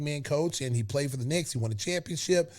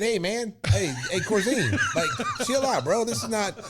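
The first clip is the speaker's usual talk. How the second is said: retold protest; 6 semitones higher than usual. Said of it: "And I said".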